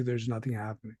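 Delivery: normal talking voice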